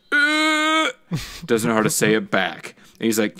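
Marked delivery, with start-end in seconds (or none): 0.1-0.9 put-on flustered girl. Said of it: "and she's like".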